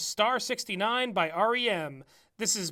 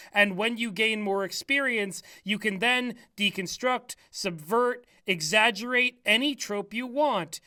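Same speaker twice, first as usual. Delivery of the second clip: whispered. Shown as a demonstration. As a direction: breathe it out in a hush. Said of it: "Read it normal".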